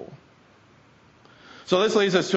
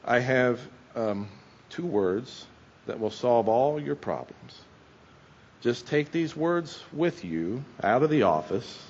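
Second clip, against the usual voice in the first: calm deadpan; 2 semitones lower, 4 dB quieter than usual. Retold or imitated. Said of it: "very calmly, like only Bob Newhart can do".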